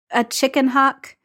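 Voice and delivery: flat unimpressed question; doubtful, not impressed. Acted.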